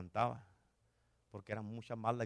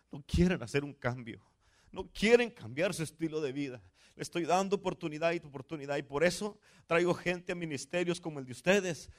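raised, emphatic preacher's voice; forceful preaching; 6 semitones higher, 6 dB louder than usual. Acted. Pastor relays the Lord's complaint about unwilling people, forceful preaching. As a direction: press each point home like a sermon climax.

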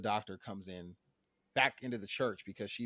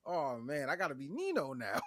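a higher, playful street voice; mock Bev; 6 semitones higher than usual. Bev answers the pastor in a pitched-up mock gangster tone. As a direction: toss it off like a movie gangster.

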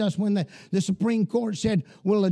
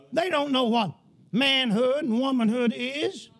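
raised, driving pulpit voice, pressing every line home; fiery preaching; 3 semitones higher than usual. Acted. Pastor warning his church the nation has gone crazy, fiery sermon voice. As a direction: preach it hard to a congregation, full of alarm.

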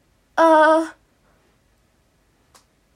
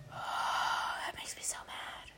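unvoiced, slow muttered complaint; slow whispered annoyance; whispered grumble; 16 dB quieter, much slower than usual. Real, not acted. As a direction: sigh it under your breath. Sighed whisper after grammar gripe.

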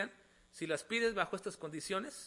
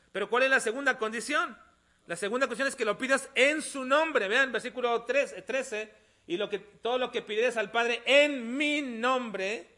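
louder, higher pulpit delivery; emphatic preaching; 6 semitones higher, 10 dB louder than usual. Real, not acted. Preacher teaching the second condition of prayer, emphatically. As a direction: drive the key phrase home with drawn-out words.

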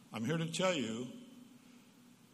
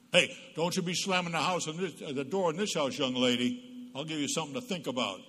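stern, louder scolding of a door-slammer; authoritarian parent; 2 semitones higher, 4 dB louder than usual. Retold or imitated. Parent scolding daughter who slammed door, stern. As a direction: lay down the law. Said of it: "that's a traditional parent, authoritarian parent".

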